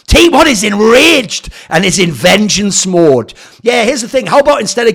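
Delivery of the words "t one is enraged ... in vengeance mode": slow, louder overdramatic read; mock dramatic reading. Streamer mocking the article's vengeance line, slow and dramatic. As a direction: sell the vengeance like a trailer.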